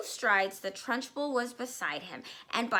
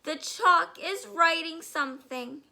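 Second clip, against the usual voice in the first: much higher, loud panicked cry; shrill scream; 8 semitones higher, 8 dB louder than usual. Acted. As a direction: shriek it in terror. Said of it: "screamed Nigel".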